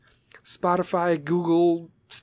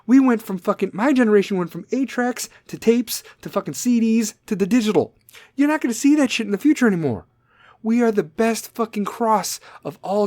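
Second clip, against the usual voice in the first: excited rant; 6 semitones higher than usual. Real, not acted.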